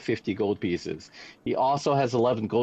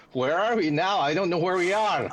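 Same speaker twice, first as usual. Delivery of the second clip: higher, lightly voiced dwarf accent; a touch of would-be Irish dwarf, pitched up; 4 semitones higher than usual. Lost dwarf asks rescuers where they are, in a higher dwarf accent. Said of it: "it's a dwarf accent".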